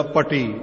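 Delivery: ਪਟੀ with one short retroflex T; single T. Shown as a demonstration. Preacher showing a word stripped of adhak, ਪਟੀ with single T. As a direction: say ਪਟੀ without doubling the T. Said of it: "ਜੇ ਅਧਿਕ ਦਾ ਉਚਾਰਨ ਨਾ ਕਰੀਏ".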